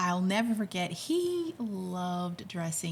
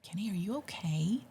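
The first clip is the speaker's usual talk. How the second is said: whisper; 5 dB quieter than usual. Retold or imitated. Wife checking on upset husband.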